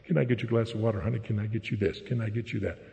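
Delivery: a mock-tender husband offering his wife everything; kind, warm husband. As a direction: coo like an eager-to-please husband. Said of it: "I was a kind, warm, wonderful husband".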